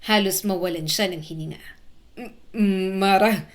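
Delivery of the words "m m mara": usual speaking voice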